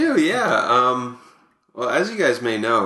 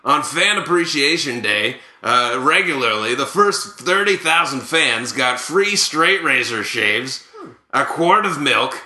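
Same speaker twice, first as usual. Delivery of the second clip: Buck Martinez. Acted. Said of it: "here to present these is Buck Martinez".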